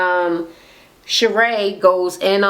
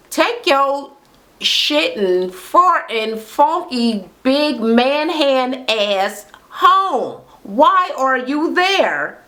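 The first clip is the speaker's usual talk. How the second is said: drawn-out roast; 6 semitones higher, much slower than usual. Real, not acted. Ranting at Marlo on the show.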